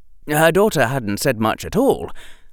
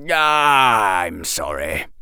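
fond smile; 3 semitones lower, much slower than usual. Acted. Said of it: "smiling fondly".

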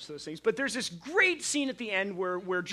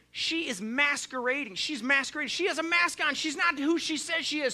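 put-on French accent; 8 semitones higher, 4 dB louder than usual. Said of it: "With the French accent to boot".

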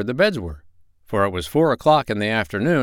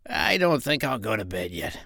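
softer little pig voice; a piglet too excited for bed; soft piggy voice; 2 semitones higher, 5 dB quieter than usual. Acted. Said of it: "said Gub Gub".

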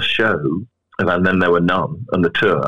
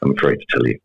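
sinister doctor voice; 5 semitones lower, faster than usual. Pretend. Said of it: "in a very sinister doctor voice".

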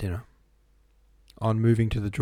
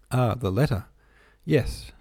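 irritable, higher-pitched grumble; peevish; 3 semitones higher than usual. A narrator's reading. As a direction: snap back in annoyance. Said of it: "replied the prince peevishly".

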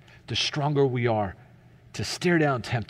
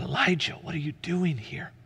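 hushed, breaking into a whisper; still small voice; 6 dB quieter than usual. Acted. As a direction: softly whisper it as God's gentle question. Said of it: "he heard a still small voice".

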